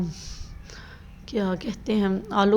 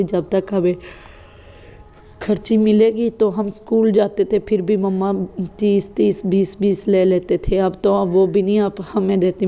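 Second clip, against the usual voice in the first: शिकायती बेटी की नकल; 6 dB louder than usual. Retold or imitated. Daughter complaining about pocket money.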